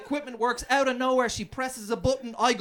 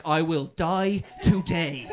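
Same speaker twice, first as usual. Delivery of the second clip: manly resolve; 3 semitones lower, slower than usual. Retold or imitated. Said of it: "the man in me kicked in".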